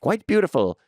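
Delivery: lightly voiced foppish duke reading a letter; mock love note. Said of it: "read a note by the Duke".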